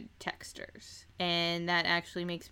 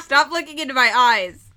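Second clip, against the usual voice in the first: laughing; 3 semitones higher, 14 dB louder, faster than usual. Real, not acted. Fighting off giggles, laughing plea.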